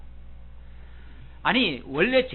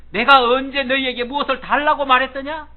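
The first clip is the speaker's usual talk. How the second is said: loud, raised challenge to his friends; stern Job; 6 semitones higher, 8 dB louder than usual. Acted. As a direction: demand it sternly, voice lifted. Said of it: "정색을 얘기하는 거예요".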